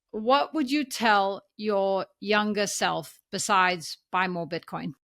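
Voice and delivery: slow, careful put-on American accent. Shown as a demonstration. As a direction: redo the question in an American accent. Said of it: "let me do my American accent".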